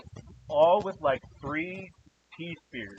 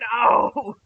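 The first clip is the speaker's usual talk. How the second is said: higher, slow drawn-out NO of outrage; mad no; 8 semitones higher, 10 dB louder than usual. Real, not acted. Fan yelling no at the T-spears being destroyed, mock outrage. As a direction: wail the no like a fan losing his toys. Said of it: "I was so mad".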